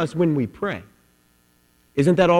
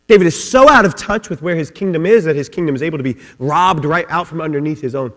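ordinary talk

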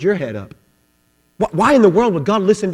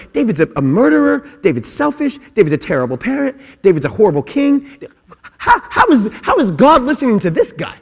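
higher-pitched, stammering disbelief; acted incredulity; 5 semitones higher than usual. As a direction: protest like a baffled listener. Voicing a listener's disbelief at David.

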